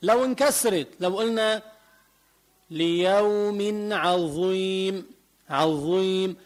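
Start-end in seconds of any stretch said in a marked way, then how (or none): 2.7-6.4 عظيم with a heavy ظ, lips kept rounded; slow recitation, keep the mouth unopened on the ظ of عظيم; rounded emphatic ظ. Shown as a demonstration. Teacher showing students the ظ of عظيم, heavy and rounded. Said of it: "ما بفتح تمي هون".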